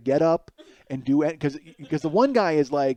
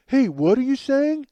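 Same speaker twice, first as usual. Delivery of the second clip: higher, louder, slow challenging bro; confrontational guy; 9 semitones higher, 5 dB louder than usual. Retold or imitated. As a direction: turn around and challenge him. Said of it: "he's like".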